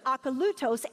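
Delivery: Akalutos with the LU stressed; stress on third syllable. Shown as a demonstration. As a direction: lean on LU in Akalutos. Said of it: "say it one more time".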